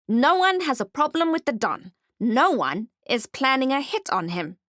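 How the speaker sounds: high, strange goblin voice. Acted. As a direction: brush it off like a sly goblin. Goblin denies the plot.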